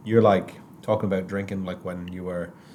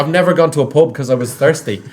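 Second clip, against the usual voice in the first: laughing punchline; 8 semitones higher, 7 dB louder than usual. Retold or imitated. Retelling the Irish punchline, laughing.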